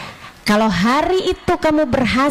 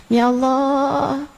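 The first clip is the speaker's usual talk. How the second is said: sample prayer. Shown as a demonstration. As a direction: plead gently as if praying. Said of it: "kamu minta sama Allah".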